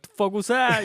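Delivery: mock yell, high and loud; imitated yelling. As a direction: yell it like a heckling director, joking. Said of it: "You're the one yelling".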